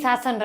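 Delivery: "શાસન" said in place of the English "session"; mispronounced word. Acted. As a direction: say "શાસન" with a long aa in the first syllable. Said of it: "શાસન નહીં બા".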